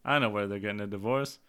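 low, glum mock confession; deadpan kid blaming herself; self-blaming child. Daughter blaming herself for the divorce, low glum voice. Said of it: "She says".

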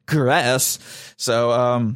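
burp slipping into the words; talking while burping. Real, not acted. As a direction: speak through a small burp. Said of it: "I'm burping in the mic".

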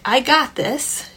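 light reassurance, pitched a bit up; kind, easy declarative; gentle, loving. Shown as a demonstration. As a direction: let the child know it's handled. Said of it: "a gentle, loving sentence".

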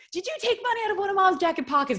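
a frantic dad pounding on the door; father confronting son about the money, high and quick; alarmed father. Retold or imitated. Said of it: "He's like".

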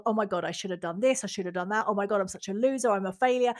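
mild mock self-criticism; self-berating. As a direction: run yourself down, a touch mocking. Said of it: "saying to myself".

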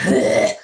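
loud, exasperated mock "ugh"; reluctant groan. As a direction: groan it out, imitating a reluctant pupil. Reluctant reply to teacher's order.

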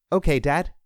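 put-on high, eager child voice; little boy. A narrator's reading. Small boy answers his father.

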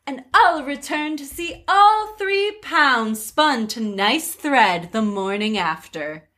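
light, sweet fairy godmother; lightly voiced fairy godmother. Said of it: "That was more fairy godmother than queen".

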